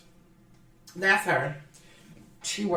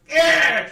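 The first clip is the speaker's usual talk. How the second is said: high, loud "ugh"; exasperated groan; 7 semitones higher, 5 dB louder than usual. Retold or imitated. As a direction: groan in mock disgust. Disgusted reaction to her behavior.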